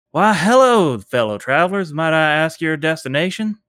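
a hint of a pious stranger hailing travelers; wandering zealot. GM as the robed traveler greeting the party, lightly voiced.

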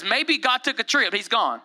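imitating a prophet's jeer; mocking. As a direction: taunt them with a mock explanation. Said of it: "mocking them".

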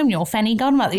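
put-on broad Australian accent, leaning right in; playfully exaggerated Australian delivery; hammed-up Aussie. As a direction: ham up the Aussie for an ad. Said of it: "I hand up the Aussie".

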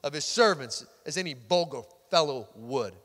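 imitating a disdainful wife's sarcasm; scornful wife. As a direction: read it as a withering mock compliment, falling at the ends. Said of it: "That's exactly how she sounded".

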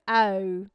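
"oh" drawn out as a wide Australian vowel. Shown as a demonstration. Host shows how Australians say O, "oh" wide and many-vowelled. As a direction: stretch "oh" through several vowels, Australian-style. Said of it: "the way that Australians say their O's".

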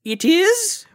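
put-on very high, loud Shakespearean accent; high, hammed-up English accent; mock olde english. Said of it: "our best Shakespearean voice".

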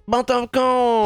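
slow, exaggerated French accent "But of course"; hammed-up French accent, slow; mock French. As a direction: stretch it out like a smug Frenchman. Joking French voice.

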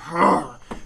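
short, huffy mock grunt; exaggerated grunt of exertion. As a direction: imitate a heavy man huffing. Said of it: "So he starts grunting".

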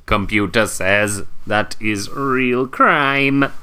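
slow, lightly robotic computer voice; toy robot voice. Pretend. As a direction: announce it like a computer. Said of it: "Robot, Robot One".

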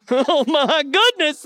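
words breaking up with laughter; real laughter. Real, not acted. Preacher cracking up at his own kidney stone story, laughing. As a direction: laugh through the exclamation.

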